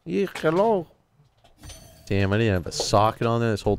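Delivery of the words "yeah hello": high mock Latino phone hello; mock Latino accent. Fake grandson on the phone, mock Latino accent. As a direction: answer as a badly faked Latino caller. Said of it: "why do you sound Latino".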